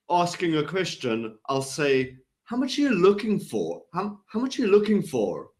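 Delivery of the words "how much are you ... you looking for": "How much are you looking for" asked in a raised pitch; questioning upward inflection. Shown as a demonstration. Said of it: "And I'll go up".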